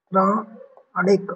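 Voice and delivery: पौराणिक very slowly as "pau ... raa ... nik"; syllable-by-syllable spelling. Shown as a demonstration. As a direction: break पौराणिक into separate syllables with long pauses. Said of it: "छोटी की मात्रा होगी".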